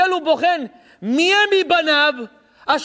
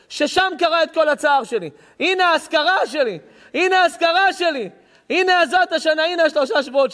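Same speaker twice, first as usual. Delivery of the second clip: God grieving; 3 semitones higher than usual. Acted. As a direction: plead as a bereaved father testing his son. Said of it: "פה אומר הקדוש ברוך הוא".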